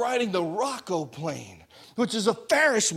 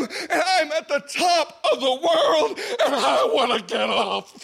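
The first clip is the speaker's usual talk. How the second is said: laughing shout; 4 semitones higher than usual. Retold or imitated. Terrified at the top.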